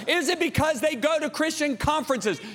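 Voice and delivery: high-pitched challenging question; dad grilling sons. Retold or imitated. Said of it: "I said".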